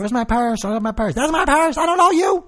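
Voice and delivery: hammed-up snooty suburban woman, building; mock rich lady. Mocking rich suburban women.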